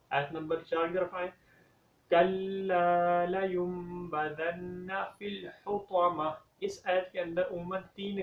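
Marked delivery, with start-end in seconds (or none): 2.1-6.3 slow drawn-out melodic recitation; Quran recitation. Shown as a demonstration. Teacher recites verse four for the class, slow chant. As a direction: chant each word slowly.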